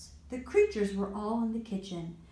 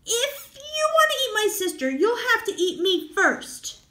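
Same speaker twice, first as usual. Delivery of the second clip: loud defiant shout, higher; brave shout; 14 semitones higher, 7 dB louder than usual. Acted. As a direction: stand firm and shout it. Ian defies the monsters.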